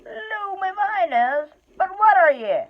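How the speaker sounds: high, loud, puzzled troll. Acted. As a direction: squint down at the strange little creature. Troll questions the hobbit.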